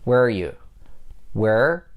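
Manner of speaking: "Where" with a lengthened R absorbing are; stretched R. Shown as a demonstration. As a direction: hold the R at the end of "Where". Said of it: "you have to stretch those two R letters".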